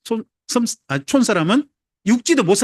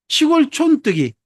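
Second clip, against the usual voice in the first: slow, higher, sneering drawl on 촌뜨기; mocking slur; 6 semitones higher, slower than usual. Preacher voices how people mocked Nazareth folk, slow sneering. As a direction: spit out the slur like a city snob.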